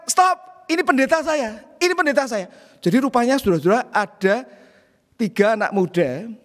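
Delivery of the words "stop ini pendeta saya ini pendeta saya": young men stepping in, mild mock yell; shouting stop. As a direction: retell the young men's urgent cry. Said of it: "tiga anak muda itu mengatakan".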